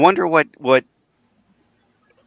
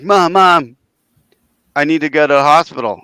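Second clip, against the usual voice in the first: loud, rushed, higher panicky plea; urgent plea; 5 semitones higher, 6 dB louder than usual. Retold or imitated. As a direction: beg like a bleeding kid. Retold plea to mom after dog bite.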